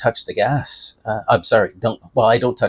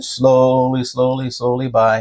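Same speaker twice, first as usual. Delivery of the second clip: slowly; slower than usual. Shown as a demonstration. Mimics creeping slowly past.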